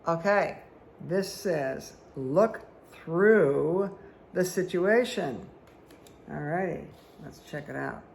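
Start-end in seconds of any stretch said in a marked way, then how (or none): 2.1-5.5 slow, louder oracle pronouncement; solemn card reading. Acted. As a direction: draw each word out like a revelation. Reading the card's message aloud.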